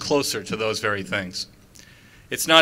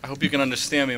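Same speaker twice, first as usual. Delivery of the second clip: numb cold lips, words a little slurred; frozen lips; 3 semitones higher, 5 dB louder, faster than usual. Real, not acted. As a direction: talk through lips frozen stiff. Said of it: "My lips are frozen".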